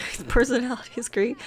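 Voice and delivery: barely saying it. Shown as a demonstration. Narrator showing Rosie can barely say it, amused. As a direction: laugh slipping into the praise. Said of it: "She can barely say it".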